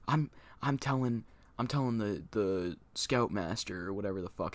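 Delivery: retold pissed off. Pranked scout threatens to tell the scoutmaster, mildly pissed off. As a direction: imitate a pissed-off friend, easing off by the end. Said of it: "he got so pissed off".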